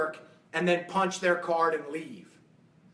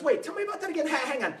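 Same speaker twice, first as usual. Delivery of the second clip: wealthy guy; 5 semitones higher than usual. Retold or imitated. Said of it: "this wealthy guy goes".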